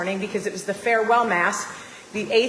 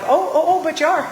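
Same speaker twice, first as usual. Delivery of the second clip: sassy gotcha; 7 semitones higher, 4 dB louder, faster than usual. Retold or imitated. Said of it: "I'm like".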